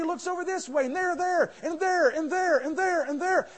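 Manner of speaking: rising, urgent calls of each there; a frightened servant spotting soldiers everywhere; anxious looking around. Acted. Servant frightened by the army, urgent and rising.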